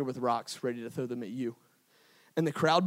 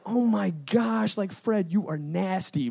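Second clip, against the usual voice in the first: hammed-up scandalized onlooker; mock disgust; 3 semitones higher, 4 dB louder, slower than usual. Onlooker reads Fred's sins, mock disgust. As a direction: start high, loud and drawn out, then ease down.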